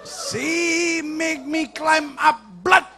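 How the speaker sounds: loud, high mock outrage; hammed-up anger. Official's wife complaining to supervisor, loud mock fury. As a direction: stretch it out slowly, hit the last word. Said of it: "dia marah sekali".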